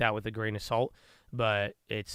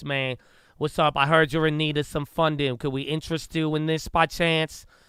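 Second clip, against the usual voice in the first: put-on New York accent, higher and louder; 5 semitones higher, 5 dB louder than usual. Imitating callers working in a boiler room: imitating a New York accent. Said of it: "New York, they talk like this".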